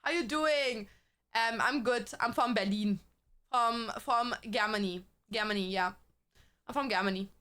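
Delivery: lightly acted accent as a German abroad; put-on accent, introducing herself. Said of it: "go there and be like".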